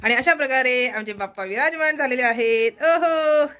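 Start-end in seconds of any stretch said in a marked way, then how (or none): 2.8-3.5 higher, louder happy exclamation; a thrilled little oho; delighted oho. Real, not acted. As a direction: greet the god with joy. Greeting the idol on camera.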